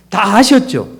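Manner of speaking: ordinary talk, nothing marked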